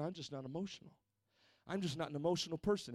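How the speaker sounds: a touch of mock indifference; mock flat excuse. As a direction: shrug it off like a bored churchgoer. Mocking a churchgoer's excuse.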